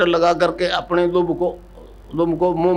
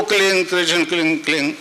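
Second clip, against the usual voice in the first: mantra repeated in a falling, fading tone; mantra recitation. Shown as a demonstration. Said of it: "कह सकते हो कि ये जपो". (मंत्र जाप, धीमे पड़ते सुर में)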